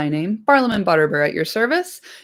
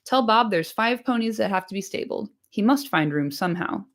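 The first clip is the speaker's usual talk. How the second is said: impatient landlord; 4 semitones higher than usual. Acted. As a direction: hurry the servant along, testy. Landlord orders Nob.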